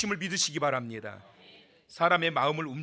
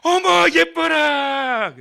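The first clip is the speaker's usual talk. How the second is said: much higher and louder, slow and drawn out; delighted cry; 9 semitones higher, 10 dB louder, much slower than usual. Acted. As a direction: gush loudly over the baby. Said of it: "이 공주가 말합니다". (아기를 보고 반한 공주, 높고 크게 늘이는 탄성)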